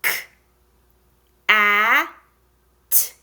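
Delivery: "K, a, t" as three isolated sounds; bare "K", loud short "a", bare "t"; long pauses between each sound of "K, a, t". Shown as a demonstration. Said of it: "let's tap those together".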